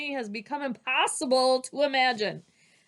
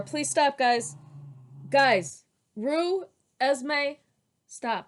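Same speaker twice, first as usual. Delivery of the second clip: real exasperated call, higher and louder; calling off dogs; 5 semitones higher, 5 dB louder, much slower than usual. Real, not acted. Reader interrupting herself to hush her noisy dogs, exasperated.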